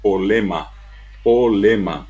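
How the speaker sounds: simplified "polema", dropping both consonant clusters; "polema" as a Guaraní speaker reduces problema; Guaraní-speaker pronunciation. Shown as a demonstration. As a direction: say "polema" without the r and b. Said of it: "El paraguayo común y corriente guaraní hablante dice".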